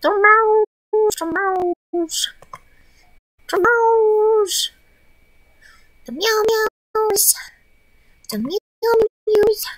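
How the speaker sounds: high sing-song cat talk; high meowing to the cat. Real, not acted.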